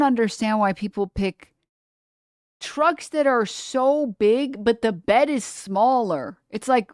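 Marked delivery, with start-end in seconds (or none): 2.6-6.4 mocking disbelief. Real, not acted. Mocking rant.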